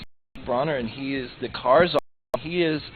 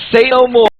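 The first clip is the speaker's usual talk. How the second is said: laughing eagerly; 6 semitones higher, 7 dB louder than usual. Real, not acted. Laughing at offer of food.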